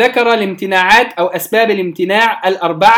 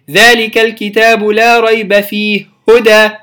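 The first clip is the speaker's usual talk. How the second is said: steady recitation at middle length; medium-length recitation; 3 dB louder than usual. Shown as a demonstration. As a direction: recite ذلك الكتاب with medium vowel length. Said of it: "توسط". (تلاوة بالتوسط)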